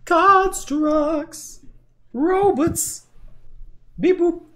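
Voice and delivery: high squeaky robot voice. Pretend. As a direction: play it as a goofy robot. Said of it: "says the robot".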